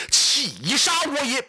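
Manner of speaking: loud, slow, drawn-out battle cry, pitched high; wounded commander roaring to his troops; great cry. Acted. Zhou Yu bellowing at the battlefront, a loud slow high cry. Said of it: "大叫一声".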